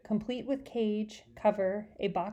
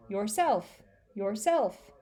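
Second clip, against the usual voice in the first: bird repeating; 3 dB louder, much slower than usual. Acted. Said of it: "he repeated".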